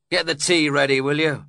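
fiercely. A narrator's reading. Heathcliff ordering the young woman to make tea, fierce. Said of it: "he added fiercely".

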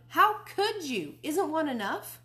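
ऊँची, ज़ोरदार, धीमी चीख; माँ-बाप पर ऊँचे सुर में चिल्लाओ; shouting. Acted. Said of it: "I shouted".

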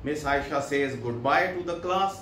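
very slow, word by word English reading; slow dictation. Shown as a demonstration. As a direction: read it out slowly for the class to follow. Reads English text slowly. (धीमी आवाज़ में पढ़ना)

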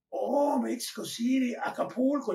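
high, loud retold exclamation; excited recognition. Lifeguard learning he's from Mexico City, excited. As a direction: burst out as an impressed stranger.

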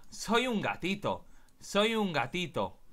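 innocent kitten. Pretend. Cat plays innocent to win girl.

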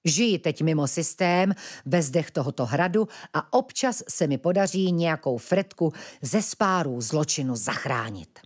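plain reading voice

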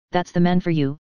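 cool, dismissive sneer on "man"; a light mock scorn, falling on "man for you"; scornful. Niece imagining aunt scorning the man, mildly scornful. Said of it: "I could hear her scornful".

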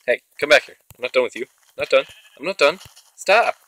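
loud, rising calls chasing after it; shouting after a fleeing enemy; calling after mob. Real, not acted. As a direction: yell at it to come back.

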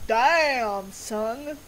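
loud, drawn-out "damn"; punchy exclamation, tailing off; impressed outburst. Real, not acted. Reacting to a game scene.

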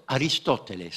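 Aristoteles with every syllable sounded; full Greek form, Aristoteles; Greek pronunciation. Shown as a demonstration. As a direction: say Aristoteles the Greek way, ending "-teles". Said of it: "les Grecs disent".

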